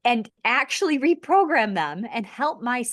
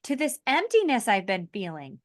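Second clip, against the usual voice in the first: relieved outburst; 5 semitones higher than usual. Retold or imitated. Coursework student finally finding truth, excited relief. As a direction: blurt it like a sudden revelation. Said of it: "'Cause you're like".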